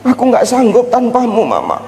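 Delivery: high fake wailing for mama; mock crying husband. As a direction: ham up the husband's sobbing. (tangisan suami yang dibuat-buat)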